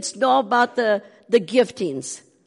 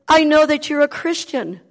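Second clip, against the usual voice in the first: visitor's voice; 7 semitones higher, 6 dB louder than usual. Retold or imitated. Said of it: "she says".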